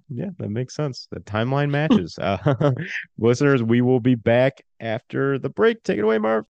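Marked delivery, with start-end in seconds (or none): 4.8-6.5 announcer call. Acted. Host tossing to segment.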